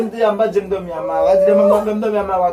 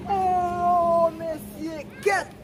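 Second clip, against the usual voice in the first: startled oh; 9 semitones higher, much slower than usual. Real, not acted. Startled cry after a scare.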